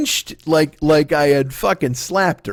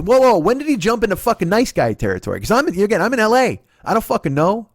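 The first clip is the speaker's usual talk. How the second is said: higher-pitched, worked-up challenge; indignant disbelief; 6 semitones higher than usual. Retold or imitated. Boyfriend on the phone to his girlfriend, indignant.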